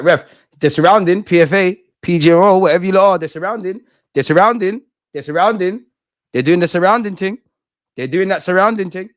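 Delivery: high, loud complaint at the officials; angry fan shouting at the referee; indignant shouting. Real, not acted. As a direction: call out the crowding of the ref.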